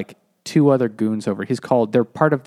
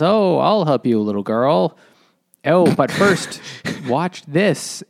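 raised, louder mock-heroic voice; masked rescuer; 4 semitones higher, 4 dB louder, slower than usual. Retelling the masked figure rescuing a girl, mock-heroic. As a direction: play the rescuer, higher and louder.

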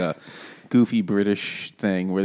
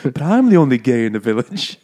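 mock Welsh lament; 3 semitones higher, 6 dB louder than usual. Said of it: "And it's like".

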